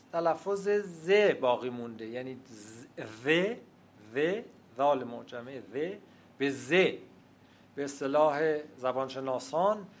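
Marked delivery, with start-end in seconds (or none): 3.2-5.9 ذ as a voiced th, tongue between the teeth; interdental zal. Shown as a demonstration. Linguist shows listeners the old zal, ذ said as interdental th. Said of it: "اون تلفظ میان دندانی". 6.4-6.7 ز as a buzzing z with the tongue tip; tongue-tip fricative. Shown as a demonstration. Linguist shows the changed sound, ز as tongue-tip z. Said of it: "نوک زبانی سایشی بدل شده".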